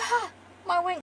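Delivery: high-pitched yelp of hurt; pained cry. Acted. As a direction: yelp as if crushed. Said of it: "Like, that's, that's painful".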